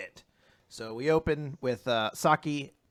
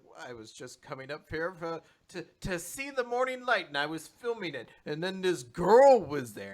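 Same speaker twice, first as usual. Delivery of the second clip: higher, wavering pitch on a flimsy alibi; lame excuse, imitated; 3 semitones higher than usual. Caught man explaining why he was filming, mock-innocent. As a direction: imitate someone fumbling through an excuse. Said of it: "his fucking explanation".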